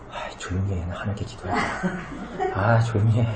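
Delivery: low, very soft mock shushing; hushed shushing. Worshipper shushing a chatty neighbour while praying, hushed. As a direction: shush a neighbour under your breath.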